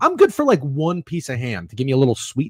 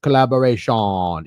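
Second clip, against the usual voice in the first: playful put-on Jamaican accent; 4 semitones lower than usual. Shown as a demonstration. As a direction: draw out the ending in a mock Jamaican accent. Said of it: "like, a Jamaican accent".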